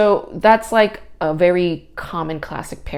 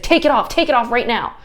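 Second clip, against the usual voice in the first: higher, louder and fast, barking the order at a guest; angry staff order; 7 semitones higher, 5 dB louder, faster than usual. Retold or imitated. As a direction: snap it like a fed-up attendant. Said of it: "She's like".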